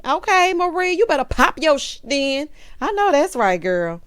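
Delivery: loud, high hype for Marie; hype cheer. Real, not acted. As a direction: cheer her on like her biggest fan. Hyping Marie up.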